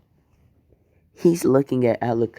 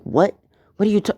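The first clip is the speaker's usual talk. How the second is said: surprised; 9 semitones higher, faster than usual. Acted. Killua startled on the phone.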